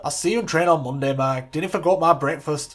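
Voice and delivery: put-on loud, firm Scottish-Irish hybrid accent; a mock Sir Alex soothing his assistant in a hybrid accent. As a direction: settle him down in a booming Scottish-Irish accent. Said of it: "Sir Alex has got an Irish accent".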